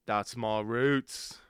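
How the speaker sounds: put-on British accent. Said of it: "my British accent".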